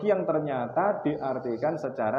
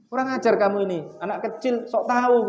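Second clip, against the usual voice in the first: high, loud mock rebuke; mock scolding; 8 semitones higher, 3 dB louder than usual. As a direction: play a fake furious father. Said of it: "Bukan saya marahi". (bentakan pura-pura, tinggi dan keras)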